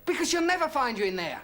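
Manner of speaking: high, hammed-up sitcom panic; urgently hiding someone from the wife; mock panic. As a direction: farce husband in a high flap. Husband hiding man from wife.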